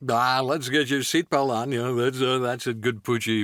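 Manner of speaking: stammering scientist on camera; Goldblum as Doc. Acted. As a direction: Doc introducing the experiment, halting. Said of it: "Doc Brown ... Jeff Goldblum".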